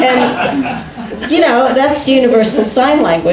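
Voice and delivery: words riding on high laughter; laughing while talking. Real, not acted. Guest laughing while recounting meeting Bob. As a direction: talk through the giggles.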